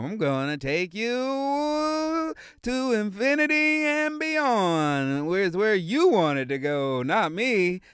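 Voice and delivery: lightly voiced cowboy toy; a hint of drawn-out cowboy character; Woody. Cowboy toy offering a trip to infinity, lightly voiced Woody. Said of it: "that's our boy Woody".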